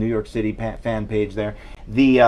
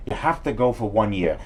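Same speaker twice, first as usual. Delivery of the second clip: parent after a stroke. Retold or imitated. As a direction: drag the words like a drooping mouth. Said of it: "The face is drooping on one side".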